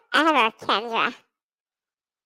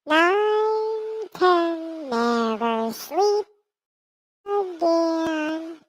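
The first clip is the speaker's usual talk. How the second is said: scary nursery rhyme; much slower than usual. Pretend. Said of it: "Kendra doesn't like scary voices".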